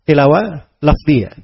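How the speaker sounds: tilawah lafziyah said slowly, each word spaced; slow, deliberate restating of tilawah lafziyah; slow emphatic repeat. Shown as a demonstration. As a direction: drag out tilawah lafziyah to drive it home.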